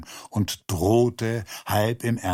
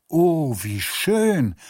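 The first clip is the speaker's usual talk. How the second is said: bright, louder burst of delight; 6 semitones higher, 3 dB louder, slower than usual. Acted. Lotzi hears the dog was saved, delighted. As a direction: gasp out the joy at the news. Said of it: "antwortete der Lotzi begeistert".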